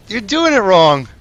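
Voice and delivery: high, loud, slow scolding yell; exasperated shout. Real, not acted. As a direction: yell at them in disbelief. Caster ranting at losing team.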